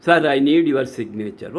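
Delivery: low, deferential request; polite. Acted. Visitor requesting an official's signature, polite.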